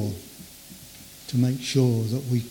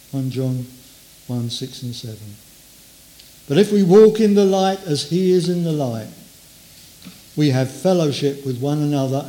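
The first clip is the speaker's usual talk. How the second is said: scripture reading. Acted.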